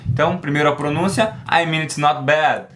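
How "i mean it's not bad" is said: slow model phrase. Shown as a demonstration. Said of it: "Perceba novamente".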